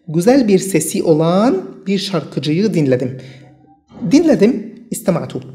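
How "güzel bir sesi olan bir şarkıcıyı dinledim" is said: very slow, words set apart; slow dictation. Shown as a demonstration. Teacher reading the example sentence to students, very slow. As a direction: read it slowly so learners can follow.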